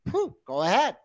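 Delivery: loud, high sarcastic "go ahead". Real, not acted. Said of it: "he's saying sarcastically here".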